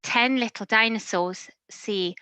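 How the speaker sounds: lively, sing-song storybook reading; animated picture-book narration; reading to children. A narrator's reading. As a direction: read it like bedtime to a toddler.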